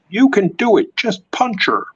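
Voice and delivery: lightly acted fan urging the hero; mock cheering. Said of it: "And that's like".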